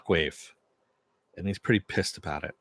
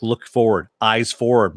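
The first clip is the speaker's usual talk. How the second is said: firm, louder command; lightly acted urgent instruction; retold order; 7 dB louder than usual. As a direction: order him sharply, as if retelling it. Billy's retold order to Huey.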